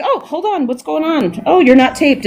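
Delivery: lightly voiced, a touch worried crew guy; sound guy.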